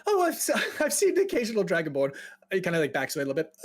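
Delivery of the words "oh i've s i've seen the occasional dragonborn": high, quick, stammering anxious mage; jittery and apologetic; nervous fear. Acted. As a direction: laugh uneasily while backing off. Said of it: "A little bit scared of dragonborn".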